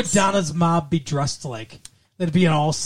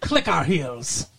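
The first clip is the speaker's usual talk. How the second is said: put-on slow comic gang accent; hammed-up Mexican-ish accent; mock mobster accent; slower than usual. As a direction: draw it out in a silly foreign accent. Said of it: "I don't know why they have that accent".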